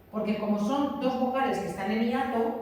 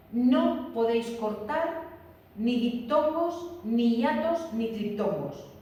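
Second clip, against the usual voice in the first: no podéis cortar said slowly, each item stressed; deliberate teacher emphasis; slow emphatic rule; slower than usual. Shown as a demonstration. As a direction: spell out ni diptongos, ni hiatos, ni triptongos slowly and firmly. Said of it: "teacher stressing the rule".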